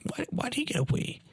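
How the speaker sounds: high-pitched retold kid's complaint; sulking. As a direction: imitate a sulky eleven-year-old's protest.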